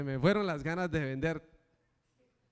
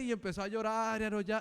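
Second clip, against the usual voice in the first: normal talking voice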